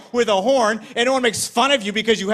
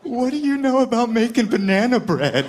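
lightly voiced banana; 5 semitones higher than usual.

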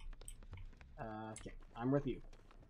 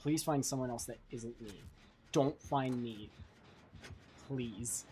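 quiet pleading; 6 semitones lower, 8 dB quieter than usual. Real, not acted. Begging while hiding.

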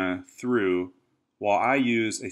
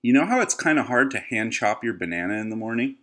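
infomercial; faster than usual. Acted. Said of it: "Why do you sound like you're in an infomercial?".

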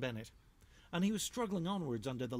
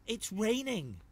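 much higher, louder yuck; disgusted badgers; 9 semitones higher, 5 dB louder, slower than usual. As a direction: recoil from the rain. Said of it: "they said".

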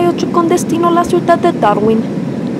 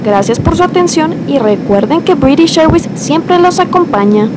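airport announcement; 5 semitones higher than usual. Acted. Captain announces again.

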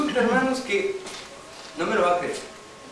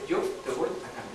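voice of God; 6 semitones lower, 6 dB quieter than usual. Retold or imitated. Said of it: "vuelvo a escuchar la voz".

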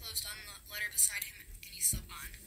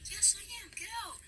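irritated dismissal; 10 semitones higher, 3 dB quieter than usual. Real, not acted. Reader dismisses interrupter.

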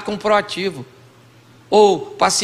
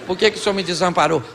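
mock plea to God; 2 semitones lower, 4 dB quieter than usual. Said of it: "Eu falo".

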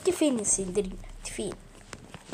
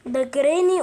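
louder, alarmed cry; panicked shout; 6 dB louder than usual. Real, not acted. Gamer being chased by the ghost, shouting in panic. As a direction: yell as she chases you.

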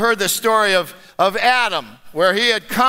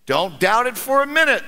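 very even tone; 2 semitones higher than usual. Acted. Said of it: "said the gentleman in a very even tone".

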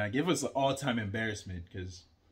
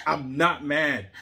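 mock not mad; 5 dB louder, slower than usual. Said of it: "they sound mad when they're like".

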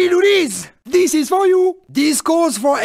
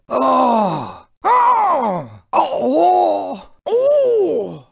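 exclaimed ohs; much slower than usual. Acted. Racer's wordless reaction barks.

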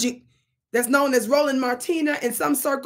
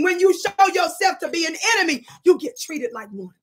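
repeating a warning to the audience; emphatic repeat; 3 semitones higher than usual. Shown as a demonstration. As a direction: say it again with force. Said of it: "Let me say it again".

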